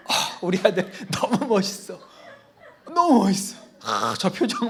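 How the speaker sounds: a mother's laughing flattery of her angry son; laughing praise. Retold or imitated. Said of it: "막 이러셨다는 거예요".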